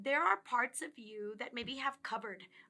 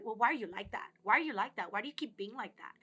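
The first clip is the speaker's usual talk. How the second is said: accusing questions; faster than usual. Retold or imitated. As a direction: fire the questions at them like blame. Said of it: "You probably are gonna get defensive".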